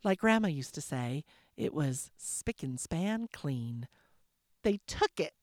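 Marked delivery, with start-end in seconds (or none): 4.6-5.3 pointed accusation, a touch higher; accusing. Acted. Leah accusing Isabel and her son at the table, pointed accusation. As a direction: point the finger at them. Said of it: "Leah accused".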